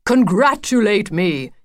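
bouncing, eager call of good news; excited cry. A narrator's reading. Wolf bursting with news to Lucy, excited cry. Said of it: "he cried, jumping up and down with excitement".

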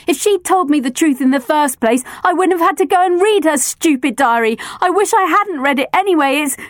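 fighting tears, then breaking; upset girl about to burst into tears; close to tears. A narrator's reading. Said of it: "burst into tears".

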